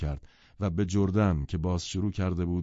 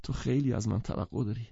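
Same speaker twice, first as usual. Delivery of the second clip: moaning; 6 semitones higher than usual. Acted. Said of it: "با ناله به گتسبی گفت".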